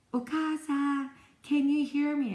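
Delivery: acted, loud, slow, drawn-out, carefully spaced shout. Retelling calling to someone inside a noisy machine: imitating yelling kinda loud. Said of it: "I'm yelling kinda loud".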